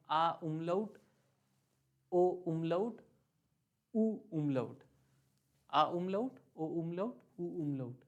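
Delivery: आ, ओ, उ each followed by "oom-lout"; German letter reading. Shown as a demonstration. Teacher reading the dotted letters in German, measured list. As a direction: list आ umlaut, ओ umlaut, उ umlaut as separate items. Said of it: "अब मैं German में पढ़ता हूँ".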